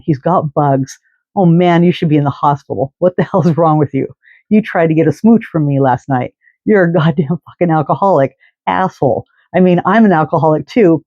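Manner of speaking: put-on lightly slurred, condemning rant, a touch of drunken slur; mock slurred drunk scolding. Drunk woman scolding homeless man in park, mild slurred condemning rant. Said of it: "in this horrible, slurred, condemning tone".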